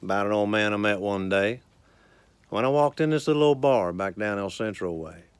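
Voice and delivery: unhurried rhythmic storytelling recital; cowboy poetry recital. Acted. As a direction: recite it like a cowboy poet at a campfire.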